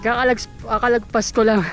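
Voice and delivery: stumbling over words, out of breath; tongue-tied while running. Real, not acted. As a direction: trip on the word, then restart it. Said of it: "nabubulol na".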